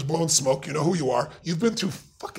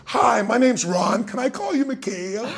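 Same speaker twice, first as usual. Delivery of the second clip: Ronald Reagan; 8 semitones higher, 4 dB louder, slower than usual. Retold or imitated. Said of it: "he said, Reagan stood up".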